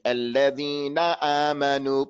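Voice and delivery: "Alladhina amanu" with a full, firm "na"; emphasized final noon. Shown as a demonstration. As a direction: land clearly on the "na" of "Alladhina". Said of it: "make it like it's the beginning of the word".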